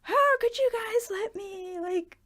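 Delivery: high, frantic mock mom voice; imitating panicked mom. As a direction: play the mother as she panics over the child left behind. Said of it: "Mom was, like, freaking out".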